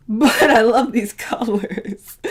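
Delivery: whispered through a laugh. Real, not acted. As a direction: giggle it under your breath. Laughing after a joke.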